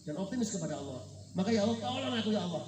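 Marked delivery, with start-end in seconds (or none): 1.5-2.6 desperate plea. Acted. Fisherman pleads to God in storm.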